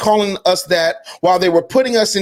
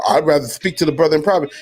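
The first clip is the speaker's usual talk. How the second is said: mocking quote; 6 semitones lower, faster than usual. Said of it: "have the unmitigated gall to say".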